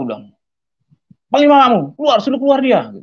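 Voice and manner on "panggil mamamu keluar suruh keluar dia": high, loud, furious demand; retold angry shouting. Drunk husband shouts for his wife to be sent out, angry. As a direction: order her out with drunken rage.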